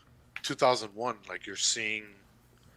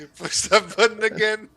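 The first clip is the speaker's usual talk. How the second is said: surprised; 10 semitones higher, 9 dB louder than usual. Real, not acted. Disbelief at friend's button press.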